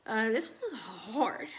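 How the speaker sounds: slow, whispered, holding back tears; real grief in a slow whisper; emotional whisper. Real, not acted. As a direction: barely get it out, slowly. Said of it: "I get a little emotional".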